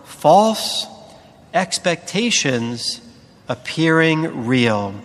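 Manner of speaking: slow, each word of "false expectations appearing real" set apart; spelled-out acronym. Shown as a demonstration. Preacher unpacking the letters of fear, slow deliberate stress. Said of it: "spelled F E A R".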